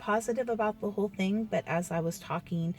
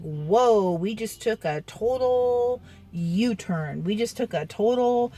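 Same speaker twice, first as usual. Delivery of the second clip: stretched-out, emphatic mock astonishment; startled reaction; 3 semitones higher, 4 dB louder than usual. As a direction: act stunned by a sudden reversal, higher. Acting out reaction to sudden change.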